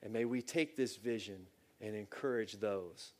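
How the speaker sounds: measured, earnest prayer voice; closing prayer. Real, not acted. Pastor praying over listening church, earnest.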